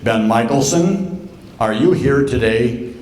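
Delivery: lightly voiced professor calling the roll, drawn out; a hint of a lecture-hall roll call over a mic; professor on microphone. Professor calls on a student before the whole class, lightly acted roll call. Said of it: "great big microphone like this".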